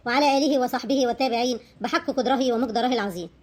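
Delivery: steady devotional recitation of blessings; prayer. Real, not acted. Vlogger opening her video with a prayer, devout recitation. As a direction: recite the blessing on the Prophet evenly.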